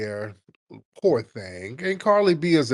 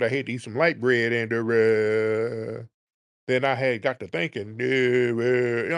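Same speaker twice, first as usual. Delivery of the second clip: mock rambling caller; 2 semitones lower than usual. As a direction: lose your train of thought between long fillers. Mock rambling caller, losing his thoughts.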